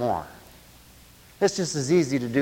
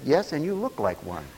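laughing punchline; 2 semitones lower, 4 dB quieter than usual. Retold or imitated. Retold joke punchline.

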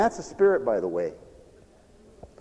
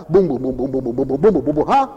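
drum imitation; 4 semitones lower, faster than usual. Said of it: "they beat the drums real loud".

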